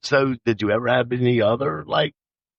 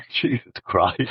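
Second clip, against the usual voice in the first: sputtering after spitting water; coughing through a spit-take; spitting out a drink; 3 semitones lower, slower than usual. Real, not acted. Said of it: "I just spit water out of my mouth".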